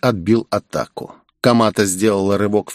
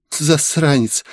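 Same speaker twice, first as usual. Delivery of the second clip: smiling insult; 5 semitones higher, slower than usual. Acted. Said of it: "улыбнувшись".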